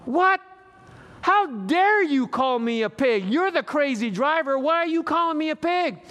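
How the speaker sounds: high, loud acted indignation; mock outraged protest; indignant outrage. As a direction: act stung and insulted by the word. Man outraged at insult in story.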